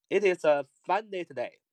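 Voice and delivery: fluent connected speech; fast linked reading. Shown as a demonstration. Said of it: "读快点，连读一点".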